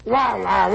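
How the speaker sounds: mock trombone wah wah; imitating sad trombone. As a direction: moan it like a sad horn.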